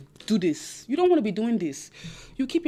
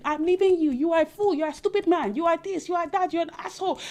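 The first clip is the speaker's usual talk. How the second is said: mock shouting; 5 semitones higher than usual. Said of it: "be shouting".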